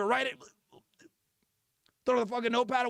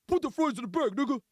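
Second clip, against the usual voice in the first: imitation Haitian accent; put-on Haitian accent, brisk order. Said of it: "some Haitian nigga come in".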